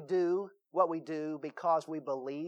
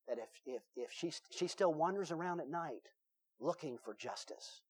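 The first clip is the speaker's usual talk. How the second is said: softer, creepy campfire voice; spooky hushed storytelling; 2 semitones lower, 10 dB quieter than usual. Retold or imitated. Counselor scaring teen campers with a ghost tale, hushed and spooky.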